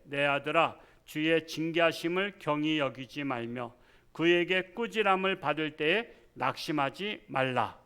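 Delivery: loud, measured Bible reading; scripture reading. Acted. Pastor reads Hebrews aloud to the congregation, loud and solemn. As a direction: proclaim the verses to the congregation.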